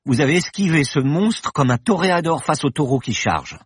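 playful high exaggerated Spanish accent; overdone foreign pronunciation. A narrator's reading. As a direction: tease him in a hammy Spanish accent. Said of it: "avec un accent espagnol exagéré".

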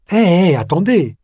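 high, loud, quick shout to stop someone; yelling. A narrator's reading. Mayor stopping the departing boss, yelling. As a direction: call out in alarm as he leaves. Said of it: "hurla le maire".

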